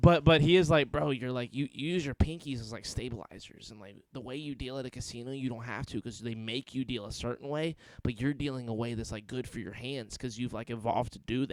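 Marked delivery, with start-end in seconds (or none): 0.9-11.5 scratchy, rasping bro voice held throughout. Retelling what a friend said about hand use, raspy voice like Steve-O. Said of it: "I love that you're staying with the voice".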